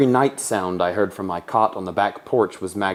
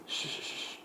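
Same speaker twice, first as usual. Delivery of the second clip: breathy whispered shush; soft urgent whisper to keep quiet; whispered hush; 18 dB quieter than usual. Acted. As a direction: hush her without a sound of voice. Boy hushing his sister.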